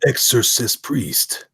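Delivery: slow, measured tagline read; Boyette impression. Host reading the tagline as Boyette would, slow impression. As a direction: draw each word out deliberately. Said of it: "my best impression of the way".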